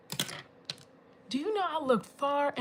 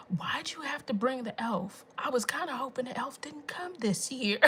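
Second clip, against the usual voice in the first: whispering mom; 3 dB quieter than usual. Retold or imitated. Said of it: "And then hear my mom".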